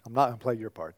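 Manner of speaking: normal talking voice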